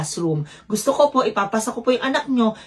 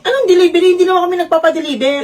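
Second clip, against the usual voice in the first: surprised; 5 semitones higher, 5 dB louder than usual. Acted. Surprised at unexpected delivery.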